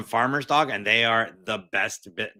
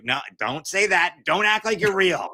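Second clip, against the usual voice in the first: higher, louder exasperated protest; 8 semitones higher, 3 dB louder than usual. Real, not acted. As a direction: plead with rising annoyance. Exasperated at the fake bot.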